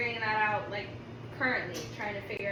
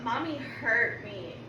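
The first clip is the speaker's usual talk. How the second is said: slow mock whine; much slower than usual. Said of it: "he be talking about something".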